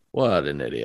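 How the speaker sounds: put-on exasperated tone. Retelling his reaction when asked what Mary looks like, mock-exasperated head-shaking. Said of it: "you can almost hear him like shake his head".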